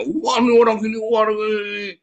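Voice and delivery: high, loud mock outrage; exaggerated finger-pointing disapproval; judgmental. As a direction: exclaim as if condemning someone, voice pushed right up. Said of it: "paling suka menghakimi orang lain".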